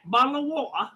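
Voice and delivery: put-on British accent, Black Country attempt; mock British accent. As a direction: toss it off in an imitated English accent. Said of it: "the black country".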